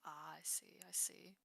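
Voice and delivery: low, whispered reply; hushed acknowledgement. Acted. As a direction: murmur it very softly, under the breath. Guarded reply to Seamus in character.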